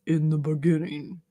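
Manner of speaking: deep, very slow Southern monotone; Drew's monotone Southern voice. Acted. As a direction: read scripture like a sleepy ASMR bedtime Bible. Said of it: "let me do my Drew voice".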